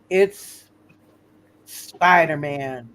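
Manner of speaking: drawn-out, dramatic name reveal; announcer's reveal. Pretend. Game master unveils the guest star, announcer's reveal. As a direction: stretch the name out slowly like an announcer.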